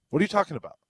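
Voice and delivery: high, loud, furious yell; angry shout. Retold or imitated. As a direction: bark it at the bartender. Retold angry bar customer.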